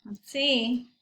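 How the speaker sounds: whispered, building suspense; suspenseful whisper. Real, not acted. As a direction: whisper it to the class. Suspense before the catch.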